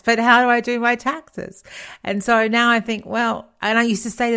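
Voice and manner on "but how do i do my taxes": put-on a touch higher, teasing the kids' whine; lightly mock the kids' old plea; mock kid pleading. Mother teasingly mimicking her kids' lifelong question, mock whine. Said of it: "the thing they asked for their whole lives".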